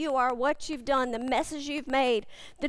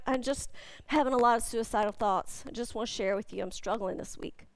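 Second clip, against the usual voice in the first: softer and lower, fading away; quiet confession; 4 semitones lower, 5 dB quieter, faster than usual. Retold or imitated. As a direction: confide a painful secret. Quoting a confessional text.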